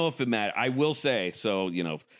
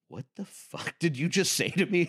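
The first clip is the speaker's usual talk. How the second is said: mock outrage; 9 semitones higher than usual. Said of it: "And I was like".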